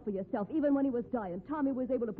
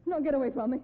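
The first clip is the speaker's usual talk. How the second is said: frightened plea; 4 dB louder, faster than usual. Acted. Struggling against attacker.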